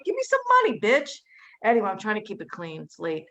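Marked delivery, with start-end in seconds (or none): 0.0-1.1 much higher, louder squawk of a demand; shrieked punchline demand; yelling the punchline demand for money; mock demand.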